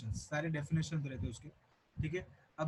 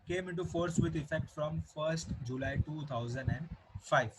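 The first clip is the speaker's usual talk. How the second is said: slow, word-by-word reading of the date; dictating the date slowly to the class; slow dictation; much slower than usual. Shown as a demonstration. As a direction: read it out slowly for notes. Repeating the date for notes.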